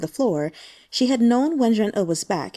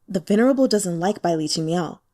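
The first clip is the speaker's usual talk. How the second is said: haughty. Acted. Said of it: "said haughtily".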